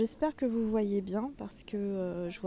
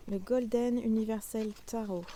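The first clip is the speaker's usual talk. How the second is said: a light, half-hearted English accent on the deck's name. Shown as a demonstration. Tarot reader naming her deck to viewers, a hint of English accent. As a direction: try an English accent though you speak no English. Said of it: "l'accent anglais".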